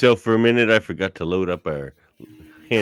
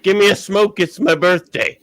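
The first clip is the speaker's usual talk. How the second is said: imitating the woman; 10 semitones higher, 3 dB louder than usual. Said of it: "she flashed me and goes".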